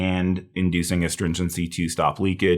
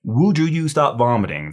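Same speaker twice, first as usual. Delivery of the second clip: higher-pitched mock plea to stop; mnemonic plea; 6 semitones higher than usual. Shown as a demonstration. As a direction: say it like a catchy memory hook. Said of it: "we would say".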